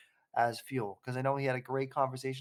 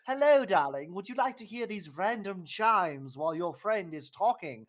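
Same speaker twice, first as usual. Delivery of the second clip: higher, prissy mock-polite voice; mock posh voice; 7 semitones higher, 7 dB louder than usual. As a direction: play TikTok as a snooty host. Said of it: "What a time for TikTok to be like".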